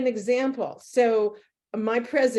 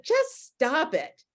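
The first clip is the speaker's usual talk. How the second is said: slow, higher, half-joking scold; mock stern; 6 semitones higher, slower than usual. Telling her friend to quit rolling her eyes, slow mock scold. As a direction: tell her off slowly with a teasing edge. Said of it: "And, and I said".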